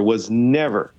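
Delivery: NEVER set apart with a pause after it; stress on NEVER. Real, not acted. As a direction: land firmly on "never" and pause. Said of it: "I underline the word never".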